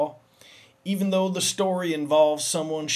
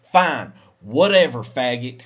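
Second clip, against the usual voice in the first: loud curt brush-off; loud petulant comeback; sulky snap; 3 semitones lower, 8 dB louder than usual. Acted. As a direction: spit it out sulkily. Bear storming off sulkily.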